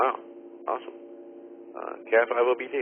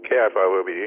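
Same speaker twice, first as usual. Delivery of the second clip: chewing while talking; talking through a mouthful of pretzels; mouth full; 3 semitones lower, faster than usual. Real, not acted. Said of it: "stuffed a bunch of pretzels in my mouth".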